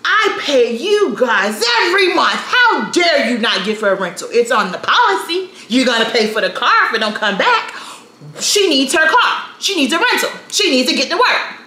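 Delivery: high, loud angry shouting at the insurer; furious dad yelling at the insurance company; dad snapping. Retold or imitated. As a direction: yell it down the phone like an outraged father. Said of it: "I remember my dad snapping".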